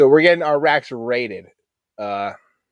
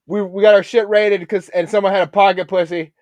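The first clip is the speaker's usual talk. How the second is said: higher, louder mock sailor voice; imitating shipmate; 8 semitones higher, 7 dB louder than usual. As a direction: play the junior guy explaining. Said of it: "They look over like".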